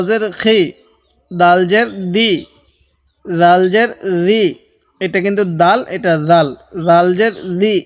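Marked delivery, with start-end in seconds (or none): 3.3-4.4 slow "জাল" with a soft buzzing z, "রি" said zi; soft zal. Shown as a demonstration. Teacher tells zal from dal, soft z in "জাল জের রি". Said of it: "এই দালটাও নরম করে পড়ব". 6.9-7.7 "জাল" with a soft buzzing z, "রি" said zi; soft zal. Shown as a demonstration. Teacher repeats zal for learners, soft z in "জাল জের রি". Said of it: "এই দালটাও নরম করে পড়ব".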